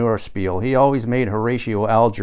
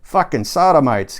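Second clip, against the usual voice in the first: a mild boom, a touch louder and higher; 4 semitones higher, 4 dB louder than usual. Acted. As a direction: thunder it like a mock prophet. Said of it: "God boomed".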